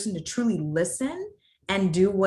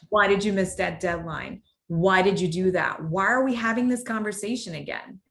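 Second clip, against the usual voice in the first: accusatory. Shown as a demonstration. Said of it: "Very, very accusatory".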